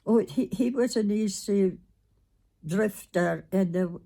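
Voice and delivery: ordinary talk, nothing marked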